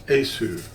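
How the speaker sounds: Esu said as the Latin reading of the letters; Latin pronunciation. Shown as a demonstration. Teacher showing how IESV is read: Esu, said plainly. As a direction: sound out Esu the way Latin readers say it. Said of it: "that's how they pronounce it".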